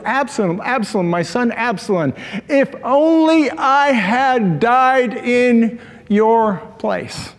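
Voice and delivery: mild imitation of a grieving father; retold wailing. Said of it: "he's wailing".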